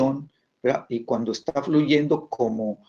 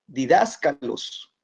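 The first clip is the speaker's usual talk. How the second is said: didáscalos spelled out slowly, di-dás-ca-los; introducing the Greek word didáscalos, slow and deliberate; slow careful term; much slower than usual. Shown as a demonstration. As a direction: lay out didáscalos slowly for the class. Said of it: "El acento en la A".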